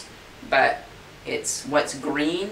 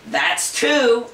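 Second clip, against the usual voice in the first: louder, higher stern count; stern warning; 8 semitones higher, 5 dB louder than usual. Acted. Groom counting at the stubborn horse, stern and loud. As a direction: warn the horse sharply.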